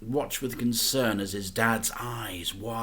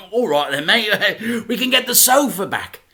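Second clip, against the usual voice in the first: chuckling, higher dad voice; laughing dad; 10 semitones higher, 11 dB louder, faster than usual. A narrator's reading. Dad teasing his son, laughing. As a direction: laugh through the words.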